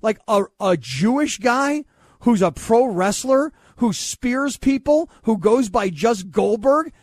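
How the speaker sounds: talking while munching; words round a mouthful of food; mouth full. Real, not acted. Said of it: "He's munching".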